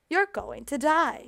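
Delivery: slow eerie ghost whisper done lightly; spooky ghost voice. Acted. Dad voicing the ghost's message, slow and eerie. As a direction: drag it out like a ghost warning. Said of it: "it sounds like it's saying".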